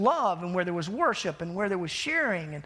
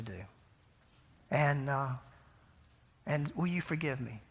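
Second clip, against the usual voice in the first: soft, subdued, mildly tearful apology; gently retold remorse, low and quiet; 3 semitones lower, 5 dB quieter than usual. Weeping friend apologizes for forcing something, imitated as softly tearful. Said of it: "He was just crying".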